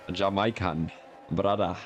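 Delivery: "Jamaican" as "ja-MY-kan", "Brother" as "brada"; "Jamaican" rhyming its middle with "my", "Brother" ending in "ah"; odd pronunciation. Shown as a demonstration. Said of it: "It's the fact you said Jamaican".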